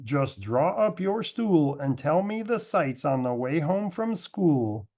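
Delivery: lightly voiced calm father, slowing at the end; a hint of a calm dad, easing into the last words. A narrator's reading. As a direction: settle the child down like a patient father. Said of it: "Dad said quite calmly".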